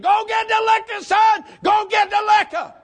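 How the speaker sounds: put-on drunk father hollering high; town drunk. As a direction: bark it out like a drunk daddy. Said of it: "Daddy said".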